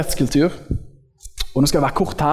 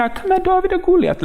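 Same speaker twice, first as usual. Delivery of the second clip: high, mock-puzzled outsider voice; a clueless visitor asking who Goliath is; clueless newcomer; 13 semitones higher than usual. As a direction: play the baffled newcomer, pitched way up. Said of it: "kommer det noen inn som bare sier".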